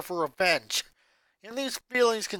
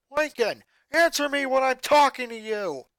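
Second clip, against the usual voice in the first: loud stern order; stern command; 7 semitones higher, 6 dB louder than usual. Acted. Father orders his son to answer, loud and stern. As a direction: demand an answer like a strict father. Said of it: "Lynn Senior commanded".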